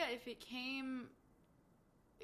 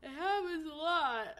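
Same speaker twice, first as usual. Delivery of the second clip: mock whining; 6 semitones higher, 6 dB louder than usual. Mock lament about yawning.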